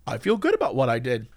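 satisfied. Retold or imitated. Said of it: "you're like".

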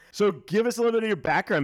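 laughing while asking; giggling through the question. Real, not acted. Laughing after the radio voice joke.

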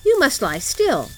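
put-on high, loud child's order; little robber girl. A narrator's reading. Robber girl hushes Gerda at night, bossy. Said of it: "said the little robber girl".

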